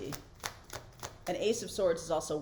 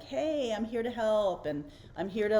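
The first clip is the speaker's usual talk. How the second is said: lightly acted, higher-pitched eager greeting; eager Fool; 4 semitones higher than usual. The Fool jumping in to offer help, lightly acted eagerness. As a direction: jump in like an eager helper. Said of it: "the Fool just jumping in like".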